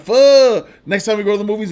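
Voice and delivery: half-joking impression of a disappointed friend; mock frustrated buddy. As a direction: play the let-down friend, loud and high. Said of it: "He was like".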